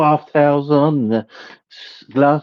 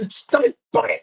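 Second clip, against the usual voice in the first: squeaky ant voice; 13 semitones higher than usual. Pretend. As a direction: squeak like an angry tiny ant.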